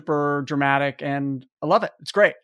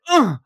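huffy groan; 7 semitones higher than usual. Retold or imitated. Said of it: "walks off in a huff".

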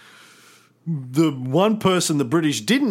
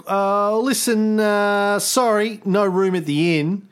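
mock British official; 6 semitones higher than usual. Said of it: "the British were like".

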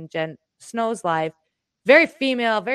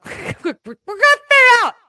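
laughing; 12 dB louder than usual. Retold or imitated. Soothing ghost, breaking into laugh.

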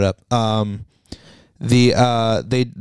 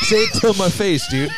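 mock shout; 5 semitones higher than usual. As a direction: shout it as a fake threat.

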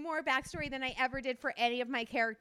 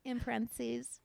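sweet tender read. Acted. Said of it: "really sweet".

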